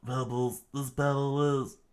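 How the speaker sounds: mild strained shout, pitch climbing; half-managed cry to halt the fight; struggling scream. Acted. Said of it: "struggled to scream".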